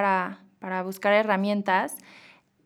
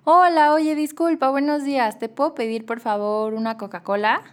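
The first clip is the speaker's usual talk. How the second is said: overly polite order; 3 semitones higher than usual. Retold or imitated. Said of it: "yo como".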